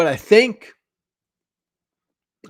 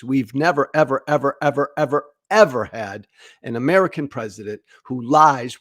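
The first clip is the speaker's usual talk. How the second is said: "ever" hit louder each time; emphatic repetition; 3 dB louder, faster than usual. Real, not acted. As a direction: hammer every "ever". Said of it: "I'm gonna say ever a few more times".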